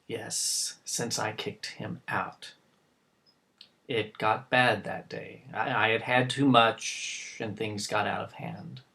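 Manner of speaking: low, hushed admission; subdued, remorseful and very quiet; ashamed confession. Acted. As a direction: confess it softly, pitch dropped. Father admits throwing son out.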